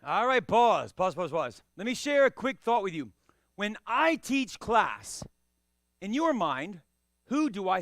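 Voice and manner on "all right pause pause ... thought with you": 1 calling a pause. Real, not acted. Stopping the class loudly.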